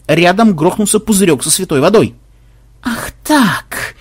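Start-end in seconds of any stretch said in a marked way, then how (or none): 2.8-4.0 high, tense indignation; stung, seething reply; hissing threat. A narrator's reading. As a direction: say it as a menacing retort. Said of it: "зашипел программист".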